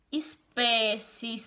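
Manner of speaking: "espécies" spoken slowly, every syllable drawn out; slow demo word. Shown as a demonstration. Teacher reading a word slowly to pupil Denis, drawn out. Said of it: "Por exemplo, a palavrinha".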